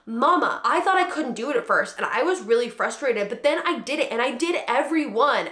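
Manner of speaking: a lightly voiced excited child; imitating a proud little son. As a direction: chirp it like her little boy. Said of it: "he was like".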